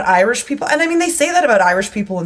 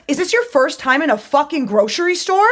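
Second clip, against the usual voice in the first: higher, sarcastic put-down; mock scornful; 7 semitones higher than usual. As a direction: needle her with scorn. Retold confrontation in grocery store.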